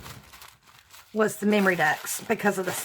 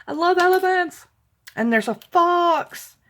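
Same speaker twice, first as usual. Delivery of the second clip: excited squeal; 8 semitones higher, 3 dB louder than usual. Real, not acted. Gushing over sticker gifts.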